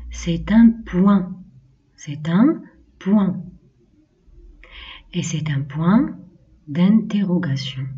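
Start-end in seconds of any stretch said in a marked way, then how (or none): 0.1-1.4 slow repeat for the class; slow model phrase. Shown as a demonstration. Teacher has pupils repeat, slow and clear. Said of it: "On répète". 2.0-3.4 slow, falling, settled "point"; slow falling repeat. Shown as a demonstration. Teacher repeats for pupils, slow falling tone. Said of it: "On répète".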